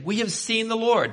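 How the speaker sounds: high-pitched, eager proclamation; excited announcement. Acted. Acted disciples announcing good news.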